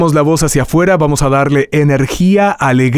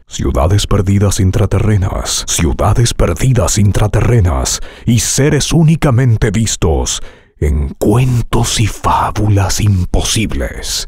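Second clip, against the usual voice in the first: acted, slow trailer read; theatrical trailer voice; 4 semitones lower than usual. Shown as a demonstration. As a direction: dramatize the fable line. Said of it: "Aquí tú señalas, teatralizando, actuando".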